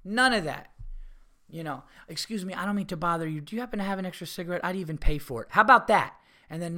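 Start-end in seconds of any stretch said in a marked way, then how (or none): 2.1-6.2 polite request. Shown as a demonstration. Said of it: "That's what a fucking human being does".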